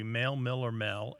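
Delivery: MALE, MILL, MEL, each vowel distinct; variant last syllables. Shown as a demonstration. Host listing ways the last syllable can be, contrasting vowels. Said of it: "The last syllable can be".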